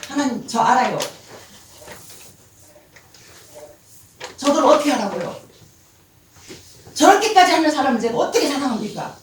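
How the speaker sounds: rising loud protest to God. Retold or imitated. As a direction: push back, indignant.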